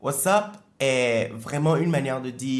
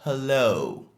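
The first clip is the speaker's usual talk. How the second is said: Hello with the second syllabe lo stressed. Shown as a demonstration. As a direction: lean on the lo of Hello. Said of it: "La deuxième syllabe du mot est la plus accentuée". (Hello, accent sur la deuxième syllabe)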